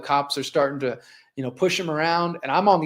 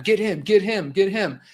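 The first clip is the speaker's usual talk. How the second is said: pitched-up mock command, repeated urgently; retold cop's order; 4 semitones higher than usual. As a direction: imitate a cop siccing others on someone. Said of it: "when the cop's pointing at him".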